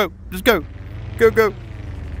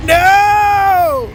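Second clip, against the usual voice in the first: dismayed cry; 7 dB louder than usual. Real, not acted. Win turns to crash.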